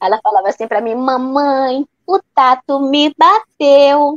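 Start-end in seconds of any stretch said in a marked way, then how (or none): 0.9-4.2 put-on very slow, babyish little toddler voice. Retelling how the daughter spoke as a baby: imitating her toddler daughter's speech. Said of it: "Falava desse jeito".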